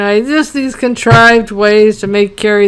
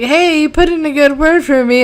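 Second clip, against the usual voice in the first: higher, wheedling mock desperation; desperate pleading; 5 semitones higher than usual. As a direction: mock-desperate plea in a raised pitch. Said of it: "Anthony is so fucking desperate".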